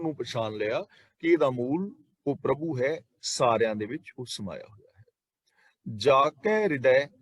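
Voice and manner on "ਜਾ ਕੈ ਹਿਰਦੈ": ਜਾ ਕੈ ਹਿਰਦੈ read slowly, then a rest; measured scripture reading of ਜਾ ਕੈ ਹਿਰਦੈ with a closing pause; pause after phrase. Shown as a demonstration. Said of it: "ਇੱਥੇ ਵਿਸ਼ਰਾਮ ਲਾਵਾਂਗੇ".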